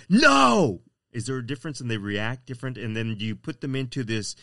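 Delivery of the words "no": full shout, very high and loud; screaming at dog. Shown as a demonstration. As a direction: scream it out as an angry order. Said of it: "if you're screaming at them".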